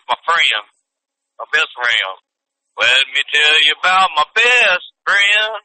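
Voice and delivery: "friend" said as two syllables, "free-end"; put-on pronunciation of friend. Shown as a demonstration. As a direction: stretch "friend" into "free-yend" each time. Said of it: "it's pronounced".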